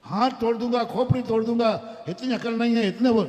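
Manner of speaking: loud, furious threats; angry shouting. Retold or imitated. Father and son storming in, shouting angry threats. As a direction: yell it out in blind rage. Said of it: "और गुस्से में दोनों आए".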